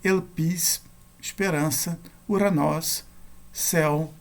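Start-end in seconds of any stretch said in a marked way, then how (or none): 0.0-0.8 "Elpis" stressed on the last syllable, PIS; final-syllable stress. Shown as a demonstration. Teacher giving Greek accent examples, "Elpis" stressed on PIS. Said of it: "cair na última sílaba". 2.3-3.0 "Uranós" stressed on the last syllable, NÓS; final-syllable stress. Shown as a demonstration. Teacher giving Greek accent examples, "Uranós" stressed on NÓS. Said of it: "cair na última sílaba".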